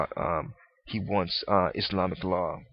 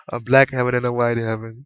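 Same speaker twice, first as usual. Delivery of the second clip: "black heaven" said louder, laughing through it; 7 dB louder than usual. Real, not acted. Repeating his own slip to listeners, laughing.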